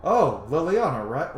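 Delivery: slow, drawn-out mock recognition; slow, lightly acted moment of recognition; knowing Rook. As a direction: imitate a hero recalling a familiar name. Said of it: "Rook will be like".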